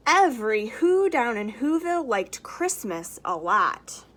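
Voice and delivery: lively storybook read-aloud; reading to children. A narrator's reading. Teacher reading the Grinch to children, lively storybook voice. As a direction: read it out like story time for little ones.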